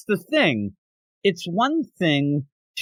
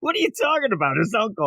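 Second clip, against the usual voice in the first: higher, baffled questioning; mock bewildered; 5 semitones higher than usual. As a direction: act baffled by the twist. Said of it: "I'm like".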